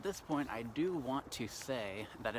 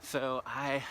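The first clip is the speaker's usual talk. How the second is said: slight lisp from numb lips; cold numb face. Real, not acted. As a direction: talk through a frozen face. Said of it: "sound like I have a bit of a lisp".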